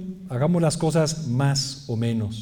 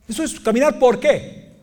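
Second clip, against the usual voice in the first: ordinary talk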